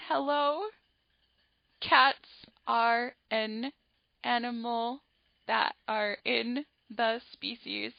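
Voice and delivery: timid little voice, trailing off; nervous child barely audible at the podium; shy mumble. Retold or imitated. Shy child reading her report too softly. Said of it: "We can't hear you".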